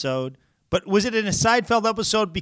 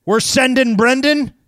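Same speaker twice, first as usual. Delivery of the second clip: slogan pitch; 6 semitones higher, 6 dB louder than usual. Acted.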